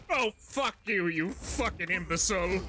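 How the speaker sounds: mild mock rage from Helios; Helios snapping back. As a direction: sneer it back as the head. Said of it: "Helios retorts".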